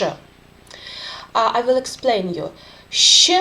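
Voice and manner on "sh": long, soft Russian щ hiss. Shown as a demonstration. Teacher demonstrating the soft Russian sound, long soft Sh. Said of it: "it is little bit longer and softer sound".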